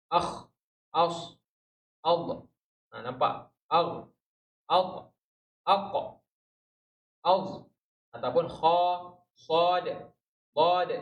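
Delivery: crisp letter-by-letter drill; letters sounded out. Shown as a demonstration. Teacher sounding out letters for Tuan Hairus, one at a time. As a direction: sound each letter with a held sukun ending. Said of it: "Ha, Tuan Hairus".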